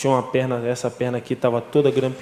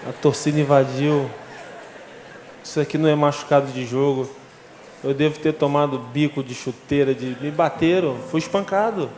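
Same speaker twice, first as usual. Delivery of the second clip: agitated insistence; 4 semitones higher than usual. Retold or imitated. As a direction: insist he knows the truth, pushing each line up high. Agitated patient arguing with brother in ICU.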